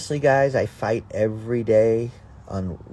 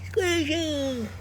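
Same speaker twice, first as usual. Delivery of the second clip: high sing-song call. Real, not acted. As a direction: call her name from across the yard. Calling chipmunk.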